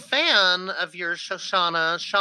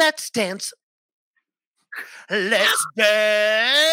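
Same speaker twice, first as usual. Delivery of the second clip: excited; 2 semitones higher, much slower than usual. Retold or imitated. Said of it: "I was like".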